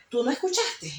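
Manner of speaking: can't believe he missed it; incredulous question. Retold or imitated. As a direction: ask it in disbelief. Retells her startled question to partner.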